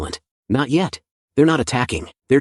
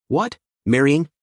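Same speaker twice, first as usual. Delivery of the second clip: shocked; 3 semitones higher than usual. Acted. Shocked by gorilla marriage news.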